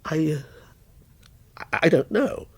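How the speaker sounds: broken, half-whispered stammer; frightened mutter. A narrator's reading. Terrified writer answering his own character, muttering. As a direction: barely get the words out. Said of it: "muttered Walter".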